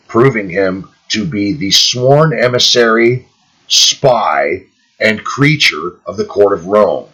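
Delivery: measured read-aloud of a historical document; formal book reading. Acted. Reader giving listeners a footnote on the oath, formal reading. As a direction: read out phrase by phrase, stressing key words.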